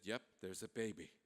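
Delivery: low, very soft reply; hushed, low confirmation; quiet answer. Acted. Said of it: "They're all very quiet".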